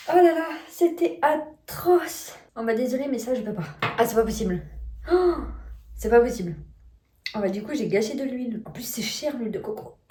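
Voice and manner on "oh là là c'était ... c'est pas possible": disgusted. Real, not acted. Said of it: "J'ai encore envie de vomir".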